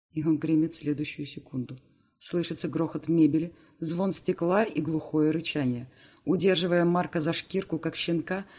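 usual speaking voice

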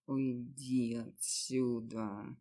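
whimpering moan. Acted. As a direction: drag it out like a weak plea. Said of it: "жалобно всхлипнул и простонал". (жалобно, медленно простонать)

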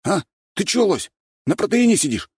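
high, cocky street-tough swagger; gopnik voice. A narrator's reading. Sweet boy faking a gopnik to newcomers, cocky swagger. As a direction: play a fake tough guy from the block. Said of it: "Голос Валентина тут же стал нормальным".

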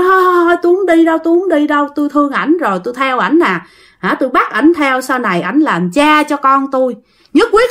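high, desperate ghost refusing to leave; ghost pleading. Retold or imitated.

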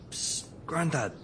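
hushed conspiratorial hiss; sneaky whisper. Acted. Grandson sneaking up on grandad, whispering. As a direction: whisper it so nobody hears.

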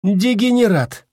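high, loud, slow insult; deliberately loud. A narrator's reading. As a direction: say it loud on purpose for all to hear. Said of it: "нарочито громко произнесла Ванда".

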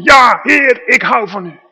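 shouted loud and high, bursting with joy; enthusiastic shout. Shown as a demonstration. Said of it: "vol enthousiasme te roepen".

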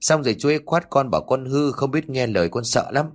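put-on small boy recounting an encounter to his father; a hint of childish fear; frightened little boy. Child tells of the ghost.

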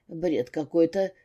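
mumbling with mouth full; slow mumble through a mouthful of food. Acted. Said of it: "пробормотал Серёжка с набитым ртом".

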